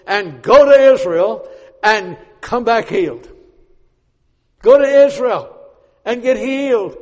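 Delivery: king sending Naaman to Israel; king commanding. Acted. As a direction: order him off with authority. The king giving orders.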